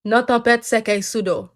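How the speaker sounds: Creole. Shown as a demonstration. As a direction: show off how it sounds in Creole. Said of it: "this is how it sounds in Creole".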